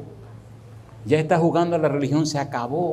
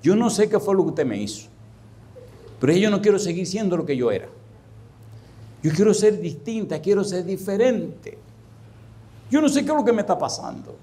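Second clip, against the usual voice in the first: high-pitched mock weepy voice; imitated tearful plea; 5 semitones higher than usual. Weeping woman confessing to her pastor, imitated tearful plea. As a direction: plead like a crying woman, lightly acted. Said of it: "la señora lloraba y me decía".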